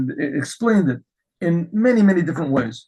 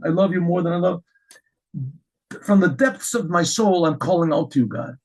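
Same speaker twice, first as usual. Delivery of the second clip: heartfelt prayer. Retold or imitated. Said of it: "And he's saying".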